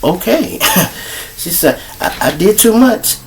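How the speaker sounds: high, soft, humbled; meek quiet. Retold or imitated. Slapped baby mama admitting fault, small and meek. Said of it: "This is what she said".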